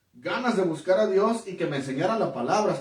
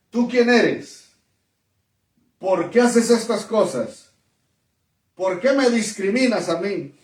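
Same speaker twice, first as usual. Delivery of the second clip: slow, forceful challenge, imitating a demon's authority; retold possessed man; 2 semitones higher, 3 dB louder than usual. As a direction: confront the teacher with measured, mock-demonic force. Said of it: "le comenzó a hablar de esa forma".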